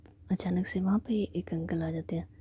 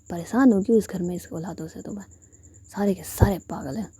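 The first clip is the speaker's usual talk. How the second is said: fed-up scolding; 5 dB louder than usual. Retold or imitated. Fed-up mother scolds her kids.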